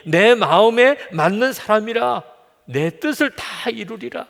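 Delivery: loud, drawn-out scripture quote, rising high; acted divine declaration; emphatic proclamation. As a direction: proclaim it slowly with swelling force.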